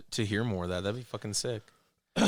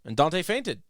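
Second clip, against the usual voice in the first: weary, fed-up narrator; exasperated narration; 5 semitones higher, much slower than usual. Pretend. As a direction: read it like he's pathetic. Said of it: "sound like you think he's really fucking pathetic".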